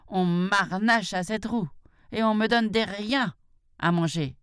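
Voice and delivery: put-on a touch of an old worn-out buffalo complaining; weary buffalo cow.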